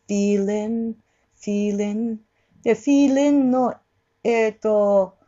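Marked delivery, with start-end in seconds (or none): 0.1-2.2 "feeling" with a lax "len" for the second syllable; relaxed second vowel. Shown as a demonstration. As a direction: drop "ling" into the throat, no sharp i. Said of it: "喉で落として、". (「feeling」のリンを喉で落とす)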